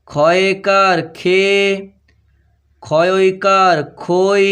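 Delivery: very slow, drawn-out syllables with pauses; spelling dictation. Shown as a demonstration. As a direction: dictate each letter combination slowly, stretching the final vowel. (ধীরে টেনে টেনে বানান বলা)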